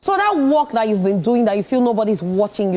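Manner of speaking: lightly played motivational speaker, rising; pep talk to a struggling artist. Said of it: "let me talk like a motivational speaker".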